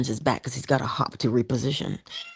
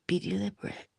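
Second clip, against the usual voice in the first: softer, lifted reminder; 4 semitones higher, 6 dB quieter than usual. Shown as a demonstration. Reminding viewers again, soft with a rising end. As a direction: float it up gently. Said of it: "repeated advice".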